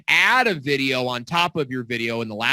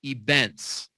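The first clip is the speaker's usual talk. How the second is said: slow and deliberate, word by word; dictating each word slowly; slow dictation; much slower than usual. Shown as a demonstration. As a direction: spell it out so they can write it down. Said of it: "Okay, write that down".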